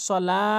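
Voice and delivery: সলা with the "laa" held long; stretched lam. Shown as a demonstration. Teacher insists it be stretched, long vowel. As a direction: draw out the লা of সলা. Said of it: "টানতে হবে".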